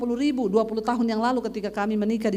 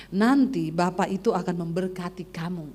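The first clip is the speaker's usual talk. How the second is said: low inner voice; a lightly voiced prompting from the heart; low, measured promise; 5 semitones lower than usual. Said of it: "ada suara di hati yang bilang gini".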